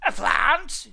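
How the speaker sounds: high, loud outraged question; aghast mother's shriek; horrified yell. A narrator's reading. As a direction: yell it in horror, rising. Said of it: "yelled Mum in horror".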